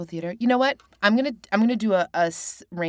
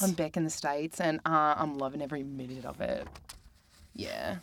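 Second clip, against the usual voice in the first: easygoing put-on New Zealand accent. Shown as a demonstration. Guest chatting about being back home, in a New Zealand accent. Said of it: "I can do a New Zealand accent".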